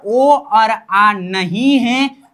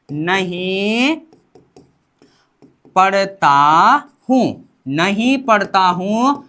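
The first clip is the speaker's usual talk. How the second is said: slow drill; slower than usual. Shown as a demonstration. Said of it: "मतलब यहाँ पर नहीं पढ़ता हूँ".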